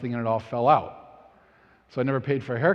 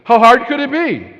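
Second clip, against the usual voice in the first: cocky dismissal; 9 semitones higher, 12 dB louder than usual. Retold or imitated. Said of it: "Like, I'm a dude".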